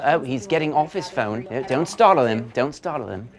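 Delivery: nature documentary. Pretend. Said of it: "like seeing an animal in the wild".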